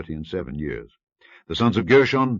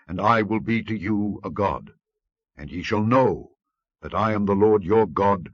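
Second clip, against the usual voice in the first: loud, raised, majestic proclamation; voice of God; 3 semitones higher, 4 dB louder than usual. Acted. The Lord promises deliverance to Moses, loud majestic. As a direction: declare it like a divine decree.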